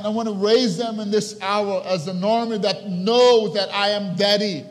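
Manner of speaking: loud, high, driving preaching voice; impassioned sermon at full volume; full force preaching. Acted. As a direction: preach it out, rising with fire.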